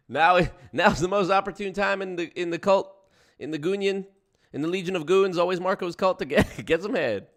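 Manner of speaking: loud, high parody of a motivational speaker; mock motivational speaker. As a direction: ham up the guru's pitch, laughing.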